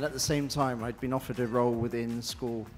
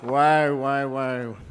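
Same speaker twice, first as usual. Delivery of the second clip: loud, genuinely surprised exclamation; stunned wow; 2 semitones higher, 11 dB louder, much slower than usual. Real, not acted. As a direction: caught completely off guard. Winner just announced, stunned.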